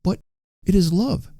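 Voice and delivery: put-on high-pitched, pleading old man; pleading old father. A narrator's reading. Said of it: "said Trotty".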